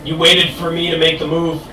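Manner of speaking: slow, measured spoken-word poem; poetry recitation. Acted. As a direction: recite it line by line, with pauses. Recites own poem on stage.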